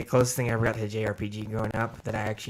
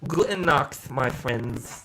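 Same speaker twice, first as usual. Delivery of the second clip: put-on German accent; much slower than usual. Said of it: "German accent".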